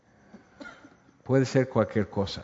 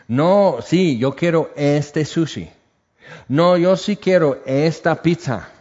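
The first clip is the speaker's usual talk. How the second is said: mock-insistent demand, pitched up; stubborn insistence; 4 semitones higher, 3 dB louder than usual. Preacher voices someone demanding their choice, insistent. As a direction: dig in like a child wanting a treat.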